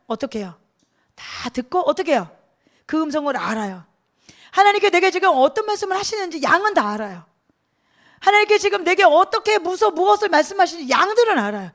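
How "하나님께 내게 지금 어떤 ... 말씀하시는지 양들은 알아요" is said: raised, urgent sermon voice; higher, louder pulpit exhortation; forceful preaching. Real, not acted. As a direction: press each question on the congregation.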